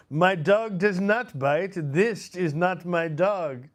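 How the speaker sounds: high, loud, slow character reply; film bit-part punchline. Acted. The guy disowning the dog, slow high comic delivery. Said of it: "the guy goes".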